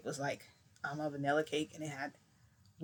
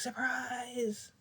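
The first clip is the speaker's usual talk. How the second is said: high, bright surprise call; spring the surprise on him; surprise shout; 8 semitones higher than usual. Retold or imitated. Kids shouting to Frodo at his surprise party, high.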